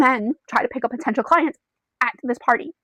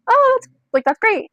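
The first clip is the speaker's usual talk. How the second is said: high, louder gushing reply; acted enthusiasm; 12 semitones higher, 4 dB louder than usual. Girl at the bar replies to the newcomer, brightly enthused. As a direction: gush lightly, pitched well up.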